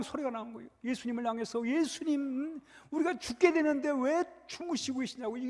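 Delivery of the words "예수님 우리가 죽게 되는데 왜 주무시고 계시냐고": disciples' anxious outcry, slightly raised pitch; imitated crying out. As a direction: plead in mock alarm, without a full shout. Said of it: "막 소리를 치는 거예요".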